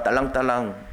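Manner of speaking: mocking 딸랑딸랑 as a toady's bell-ringing; fawning. Preacher mocking the crowd's flattery, fawning. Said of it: "빌라도에게 아부하는 말이야".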